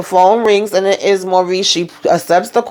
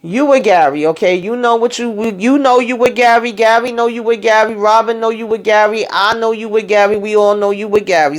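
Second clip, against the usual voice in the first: sassy call-out; 3 semitones higher than usual. Retold or imitated. Recapper calling out the character about Gary, sassy and teasing. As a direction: rub it in that she's with Gary. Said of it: "I said".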